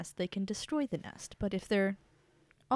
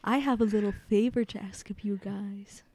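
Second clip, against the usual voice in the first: whisper. Acted. Player voices queen to goblins.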